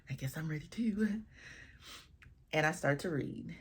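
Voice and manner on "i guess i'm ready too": nervous whisper. Retold or imitated. Nervous reply to bride's readiness.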